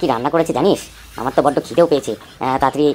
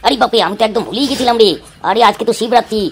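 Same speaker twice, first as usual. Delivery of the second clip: high-pitched startled remembering; startled realisation; 6 semitones higher than usual. Acted. Father remembering he forgot today is Shivratri, startled. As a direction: exclaim as if it just struck you.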